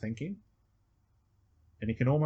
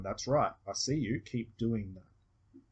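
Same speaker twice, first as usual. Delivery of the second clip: gentle reassurance; slower than usual. Shown as a demonstration. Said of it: "as if he's saying to the unconscious".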